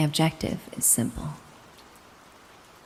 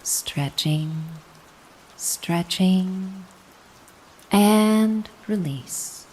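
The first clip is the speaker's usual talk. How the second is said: drawn-out release; 4 semitones higher, much slower than usual. Acted. Guided stretch counting out.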